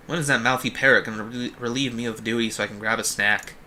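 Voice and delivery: lightly voiced jailer, a hint of Boston; vaguely Bostonian accent. Guard complaining about waiting for a snack, vaguely Bostonian. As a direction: grumble with a loose Boston accent. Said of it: "using, like, a vaguely Bostonian accent for him".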